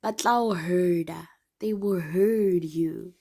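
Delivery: slow, secretive whisper; slow hushed warning. Real, not acted. Confiding warning aside.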